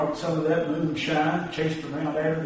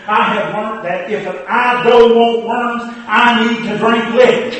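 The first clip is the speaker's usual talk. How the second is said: put-on a louder eager boy's answer; boy's punchline; 2 semitones higher, 6 dB louder than usual. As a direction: blurt the lesson out proudly. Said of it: "he said".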